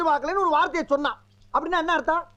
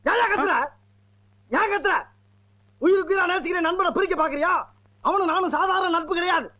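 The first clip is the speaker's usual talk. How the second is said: higher-pitched, emphatic defence; indignant protest; 4 semitones higher than usual. Acted. Defending a dearest friend's bond, indignant and high.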